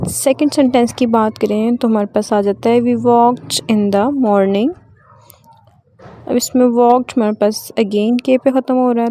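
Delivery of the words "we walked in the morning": "walked" read very slowly, ending in a crisp t; slow model reading. Shown as a demonstration. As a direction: read it word by word like a teacher, "walked" with a clear t. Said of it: "तो हम लोग इसे ट की sound में pronounce करेंगे". (धीमे-धीमे पढ़ना, "walked" के आख़िर में साफ़ ट)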